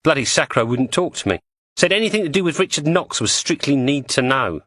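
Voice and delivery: lightly voiced cockney woman; Julie's voice. Julie complains about Sacra.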